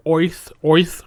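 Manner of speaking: Brooklyn-style Oith with an oy sound; Brooklyn accent. Shown as a demonstration. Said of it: "like you had a Brooklyn accent".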